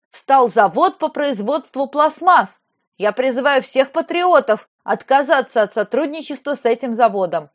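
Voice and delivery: lightly voiced pompous governor; ranting speech. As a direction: hold forth like a pompous official. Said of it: "распиналась она".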